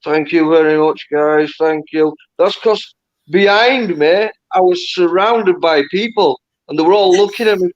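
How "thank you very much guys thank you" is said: lips barely moving; ventriloquist voice. Retold or imitated. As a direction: talk without moving your lips. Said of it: "I'm talking like a ventriloquist".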